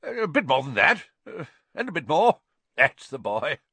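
high, loud, coaxing aunt; jolly Aunt Marge. A narrator's reading. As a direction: pile it on, egging him on. Marge serving pie.

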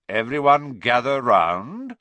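loud, commanding teacher's call; summoning the class. Acted.

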